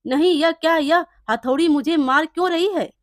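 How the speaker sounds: a touch of a yell in alarm; mild yell. Acted. Thief cries out as the hammer beats him, mild yell. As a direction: cry out lightly as the hammer hits. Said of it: "फिर सोहन चिल्लाता है".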